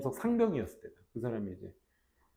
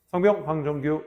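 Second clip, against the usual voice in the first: corporal call-out; 3 dB louder than usual. Shown as a demonstration. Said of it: "이렇게".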